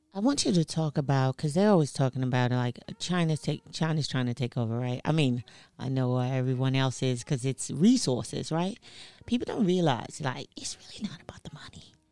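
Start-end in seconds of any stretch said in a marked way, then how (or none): 9.3-12.0 whispered, quieter than normal speech. Making an aside during a conversation, whispering. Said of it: "And I'm whispering that".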